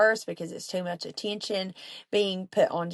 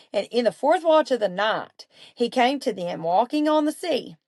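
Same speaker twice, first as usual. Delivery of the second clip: raised, animated reading of the passage; scripture reading; 3 dB louder than usual. Acted. Reading the Gospel to her listeners, animated scripture voice. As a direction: read the storm scene to the group with lift. Reads the Bible passage aloud.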